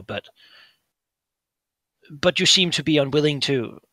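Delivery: put-on calm older brother. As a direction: gently point out his madness. Brother questions Gesh.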